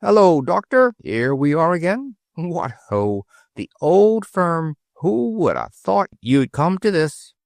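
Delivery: high, cocky Cockney sparrow chirp; cheeky Cockney. A narrator's reading. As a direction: greet the doctor like a saucy London street bird. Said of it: "said in his cheeky Cockney voice".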